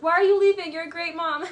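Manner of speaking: high, loud mock-innocent plea; put-on sweetness, calling after her; fake sweet. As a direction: imitate him laying on false sweetness. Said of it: "act like you're sweet".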